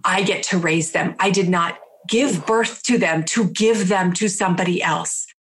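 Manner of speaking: a fighter waking up, standing her ground; defiant. Retold or imitated. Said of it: "that, like, fighter in me woke up".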